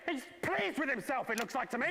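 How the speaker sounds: mock disgusted host; slow sneer. Shown as a demonstration. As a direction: drag it out scornfully.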